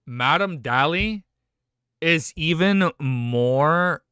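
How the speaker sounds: slow, loud, emphatic admiration; awed praise. Real, not acted. Streamer praising Madam Dali's British accent, awed praise. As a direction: draw it out with weight on each phrase. Gushing over the character's accent.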